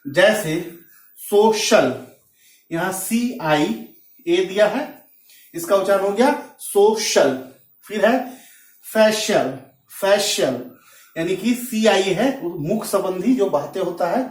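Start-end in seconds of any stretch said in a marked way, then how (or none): 1.2-1.9 सोशल with SH in the middle; CIA as SH. Shown as a demonstration. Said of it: "सी का उच्चारण श होता है". 8.9-10.6 फेशियल repeated with SH in the middle; CIA as SH. Shown as a demonstration. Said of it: "सी का उच्चारण श होता है".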